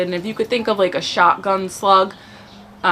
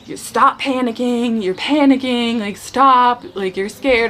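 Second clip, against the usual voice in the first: higher, mildly raised mock yell at a panicking soldier; retold sergeant's scream; 5 semitones higher than usual. Sergeant shouting down a panicking private, mild mock yell. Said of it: "he is screaming at me to shut up".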